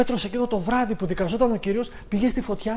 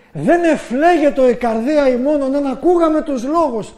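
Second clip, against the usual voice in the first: quoted with a laugh, louder and higher; laughing quote; 6 semitones higher, 8 dB louder than usual. Retold or imitated. Preacher quoting the disciples' joy, laughing. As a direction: laugh through the disciples' words, slow and bright. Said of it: "ακούστε τι λένε".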